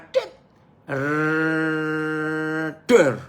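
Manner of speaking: lit click, long rolled trill, then bang; vocal fuse-and-explosion effect; imitated long fuse burning. Shown as a demonstration. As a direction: sound out a slow fuse exploding.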